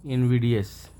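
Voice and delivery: इनविडियस said in-VID-ee-us, short i; the common way: इनविडियस, not inVIDE; correct pronunciation. Shown as a demonstration. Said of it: "ये pronunciation है इसका". (सही उच्चारण: इनविडियस)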